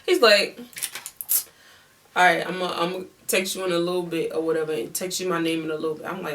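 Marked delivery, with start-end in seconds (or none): 2.2-6.0 put-on amateur Louisiana accent, words rattled off. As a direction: imitate him in a hurried Louisiana accent. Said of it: "I'm doing this accent is because he's from Louisiana".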